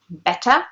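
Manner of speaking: BETTER with a crisply released T; clear T. Shown as a demonstration. Teacher shows British enunciation, clear T in BETTER. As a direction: pronounce the T in BETTER as written. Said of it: "you can hear the T".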